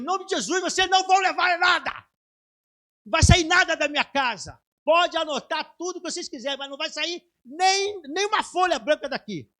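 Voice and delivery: wife shouting at the bailiffs, defiant rebuke. Retold or imitated. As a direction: shout them down in the name of Jesus. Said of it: "Ela falou assim mesmo".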